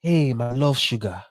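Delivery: flirt in a mock African accent; imitated smooth talker with an African accent. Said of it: "Because it's the accent".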